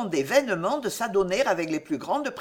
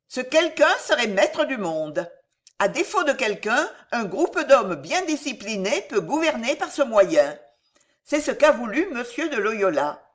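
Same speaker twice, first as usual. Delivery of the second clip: raised, oratorical queen's speech; rally a follower with mounting conviction; a hint of an imperious queen preaching her creed; lightly voiced scheming queen, exhorting; 3 semitones higher than usual. Catherine preaches lying to René.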